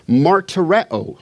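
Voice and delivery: martyreo said slowly, each syllable given its own weight; Greek word shown. Shown as a demonstration. Teacher showing students the Greek word, slow and careful. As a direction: spell out martyreo slowly for the class. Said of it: "it's gonna be helpful if you can hear the Greek word".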